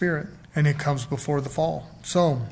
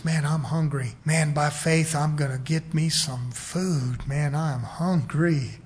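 slow, lazy little fish musing; 3 semitones lower, 3 dB quieter, slower than usual. Retold or imitated. Preacher voicing the hungry little fish, slowly.

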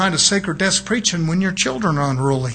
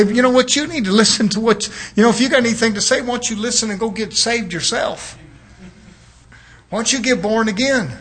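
raised, insistent retort; acted rebuke; 3 semitones higher than usual. Preacher answers an unfit witness, acted rebuke. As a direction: challenge them to go and listen.

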